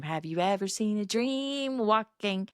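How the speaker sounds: slow, grand delivery; slow grandmother greeting. Retold or imitated. Grandmother greeting grandkids entering, slow delighted line. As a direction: draw it out like a doting grandmother. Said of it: "she would always say".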